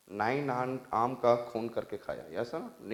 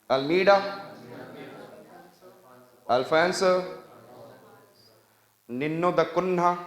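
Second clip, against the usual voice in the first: Almeida, Alfonso, निन्नो द कुन्हा pitched up, long gaps between; repeat-after-me; 4 semitones higher, slower than usual. Shown as a demonstration. Teacher drilling the class on names, raised, spaced prompts of Almeida, Alfonso, निन्नो द कुन्हा. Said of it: "हमने क्या बोला".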